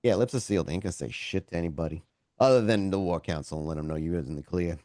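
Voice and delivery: lightly surfacing Southie accent. Real, not acted. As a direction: let a bit of Southie accent slip through. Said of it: "my own fucking accent starts coming back".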